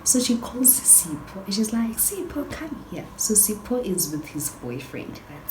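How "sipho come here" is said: high-pitched call to someone across the way. Retold or imitated. Friend calls Sipho over from his boyfriend, high-pitched call. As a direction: summon him over in a raised pitch.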